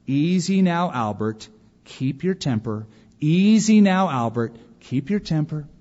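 soothing sing-song, lifting then dropping; measured mock-patient reassurance; calm, unperturbed. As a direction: imitate a father calmly talking himself down. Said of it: "in a very calm, unperturbed voice".

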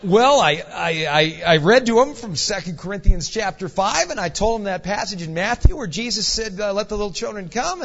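nervous stammering retelling; mock-flustered, pushed a little loud; rabbit in headlights. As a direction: stumble through an anxious answer to the boss. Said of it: "kinda getting the rabbit in the headlights look".

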